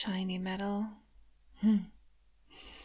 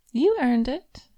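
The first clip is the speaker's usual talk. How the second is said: louder proud declaration; loud praise; 3 semitones higher, 9 dB louder than usual. Acted. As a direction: announce it with relish.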